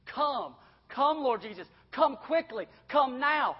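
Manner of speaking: high, loud cry of invocation; urgent plea. Acted. Preacher voicing John calling on the Lord, urgent plea. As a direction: call out for him to come.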